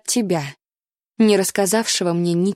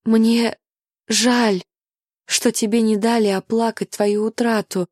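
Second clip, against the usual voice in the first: tearful heroine; 3 semitones higher than usual. Acted. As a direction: pour out the fear of losing him. Charlotte's tearful plea.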